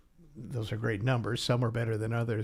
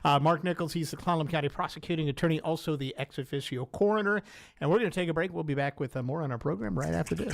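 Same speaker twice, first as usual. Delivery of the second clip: higher-pitched radio sign-off; pitched-up on-air announcing; radio host outro; 6 semitones higher than usual. Real, not acted. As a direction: wrap up the segment and throw to the break. Host's outro to the break.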